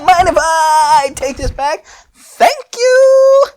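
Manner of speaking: squeaky high musing inventor; high Fu pondering aloud. Acted. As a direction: go way up high and play the giddy scientist. Fu voiced in the story.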